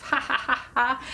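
light demonstration laugh; mock laugh. Shown as a demonstration. Presenter showing children how to laugh. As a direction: laugh it out for the kids.

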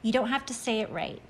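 gentle, steady reassurance; reassuring. Acted. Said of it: "Alan reassured me".

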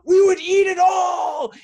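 high, loud gleeful shout, drawn out; kids screaming out. Retold or imitated. Students shouting back to the speaker about eating the ice cream, loud high yell. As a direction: bellow it like a classroom of excited kids. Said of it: "they scream out".

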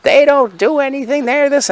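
high, slow mock grumble about kids today; complaining about kids.

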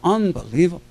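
a hint of an Italian accent; retold Italian-accented praise. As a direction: imitate an Italian colleague, lightly accented. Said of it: "with another Italian accent".

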